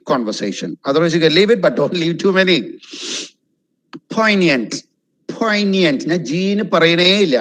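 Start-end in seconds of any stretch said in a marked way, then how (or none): 4.2-6.0 Poignant as "POYN-yent", no hard G; silent G. Shown as a demonstration. Teacher not emphasizing on G, pronunciation demo. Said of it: "I'm not emphasizing on G at all".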